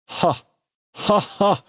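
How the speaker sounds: short, separated high "ha"s; acted laugh. Character starts to laugh after being shot, acted. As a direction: begin a put-on laugh. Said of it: "So he starts to laugh".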